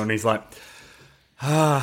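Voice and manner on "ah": drawn-out breathy "ah" of realisation; imitated breathy "ah". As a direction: act out a wordless breathy reaction. Imitating the man's reaction in film.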